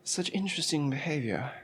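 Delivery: lightly mock nature-documentary narrator; a hint of hushed field commentary; Jane Goodall. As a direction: observe it like a wildlife presenter. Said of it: "This is Jane Goodall".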